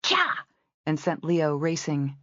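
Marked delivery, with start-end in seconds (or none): 0.0-0.5 sharp shout. A narrator's reading. Rider spurring her horse into a gallop, shouting. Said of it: "she shouted".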